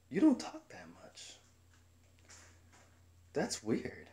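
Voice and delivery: very high, whispery mimicry; imitated coworker. Coworker remarking that he is quiet, imitated high whispery voice. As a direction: squeak it in a half-whisper.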